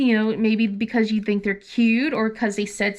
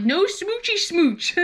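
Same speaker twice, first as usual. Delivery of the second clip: higher, slow, laughing singsong; teasing mom; 7 semitones higher, slower than usual. Retold or imitated. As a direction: tease it out to embarrass her. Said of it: "I'm like".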